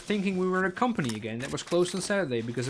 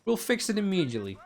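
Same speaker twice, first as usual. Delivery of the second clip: mock breezy help desk; 7 semitones higher than usual. Help desk brushing off the complaint.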